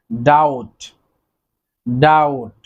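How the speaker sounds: ডাউট said clearly with a falling tune, b silent; careful pronunciation. Shown as a demonstration. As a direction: model the word ডাউট for the class. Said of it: "Then রয়েছে".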